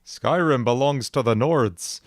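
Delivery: slow, lilting mock Nord accent. Imitating a friend's Skyrim voice, Nord accent. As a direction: attempt a Nord accent that lands near Minnesota. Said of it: "really good Nord Skyrim voice".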